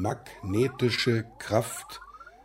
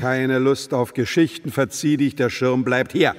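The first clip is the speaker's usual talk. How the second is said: angry; 5 dB louder than usual. Acted. Throwing the visitor out.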